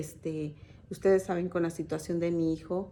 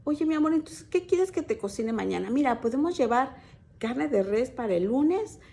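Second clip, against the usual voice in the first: higher, honeyed voice of a loving wife; sweet doting wife; 3 semitones higher than usual. Retold or imitated. Wife sweetly offering her husband dinner, high and honeyed. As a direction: coo to him like a devoted wife. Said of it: "escuché la voz que decía".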